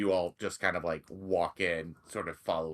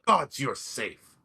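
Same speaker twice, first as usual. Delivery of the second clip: loud, higher, delighted greeting; joyful welcome; 8 semitones higher, 9 dB louder than usual. Acted. Sildar loudly welcoming Bernie back, overjoyed. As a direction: throw the door open for a friend back safe. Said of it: "and he says".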